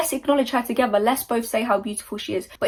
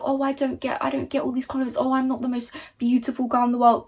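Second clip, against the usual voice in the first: mock self-pity; 3 semitones higher than usual. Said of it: "You can either be like".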